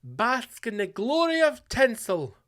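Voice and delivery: a lightly voiced scared listener; whiny timid listener. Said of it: "if you're sitting there going".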